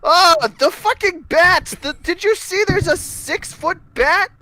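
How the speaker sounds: high, drawn-out excited disbelief; astonished outburst. Real, not acted. Friend recalls a six-foot bat, astonished outburst.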